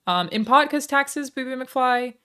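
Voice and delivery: normal talking voice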